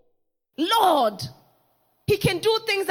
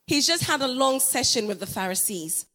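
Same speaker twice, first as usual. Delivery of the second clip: dismissive disciples; 9 semitones lower than usual. Retold or imitated. Disciples brushing off the mother, low and dismissive. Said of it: "the disciples said".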